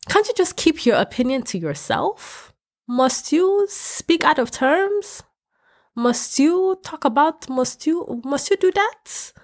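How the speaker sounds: high, slow, drawn-out disbelief; a high, stretched, pleading scold; high mock scolding. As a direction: plead high and slow with each must you. Scolding the rude commenters.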